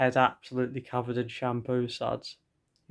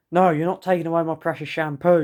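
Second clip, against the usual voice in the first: louder and higher, a hammed-up possessive yell; screaming; 5 semitones higher, 8 dB louder than usual. A narrator's reading. Stepdad refusing to give up the shampoo, screaming. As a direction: scream it like guarding treasure. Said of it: "your stepdad screams".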